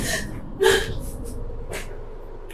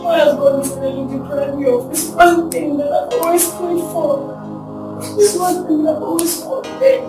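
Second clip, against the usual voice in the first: tearful lament. Acted. Brenda laments between two men.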